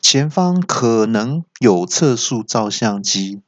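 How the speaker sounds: slow machine-like alert; mock car GPS voice; GPS announcement. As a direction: read it like a navigation warning. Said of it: "那有时候导航就会说".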